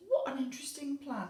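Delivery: put-on high, loud, wondering old lady; surprised. Teacher as the old lady marvelling at the plan. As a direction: sound truly taken aback. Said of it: "She was so surprised".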